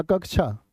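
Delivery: "कक्षा" said as kakchha, chh after k; "कक्षा" turned into कक्छा; wrong pronunciation with छ. Shown as a demonstration. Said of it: "ना".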